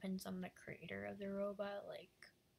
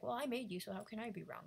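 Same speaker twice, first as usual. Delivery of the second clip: higher, louder, huffy retort; indignant creator; 3 semitones higher, 3 dB louder than usual. Acted. Creator arguing with his smart computer, indignant and loud. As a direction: snap back like the boss who can't be wrong.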